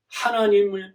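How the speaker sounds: ordinary delivery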